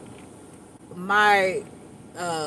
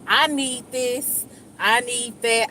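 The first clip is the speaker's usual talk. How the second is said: slow, emphatic list of demands; demanding; 4 semitones higher, slower than usual. Acted. Coming in at HR without tact, slow demanding tone. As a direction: lay down each need slowly, without softening. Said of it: "I try to come in with a softer approach".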